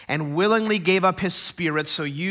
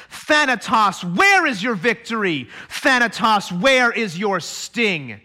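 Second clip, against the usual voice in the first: preaching; 3 semitones higher than usual. Acted. Preacher proclaiming to the church, in full force.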